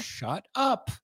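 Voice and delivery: high, put-on shout; king voice. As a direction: snap it like the pompous king. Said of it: "when the king comes through".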